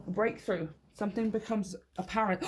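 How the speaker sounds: ordinary talk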